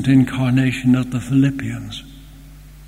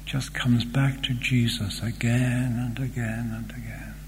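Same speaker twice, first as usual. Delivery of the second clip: reverent hush; 5 dB quieter than usual. Real, not acted.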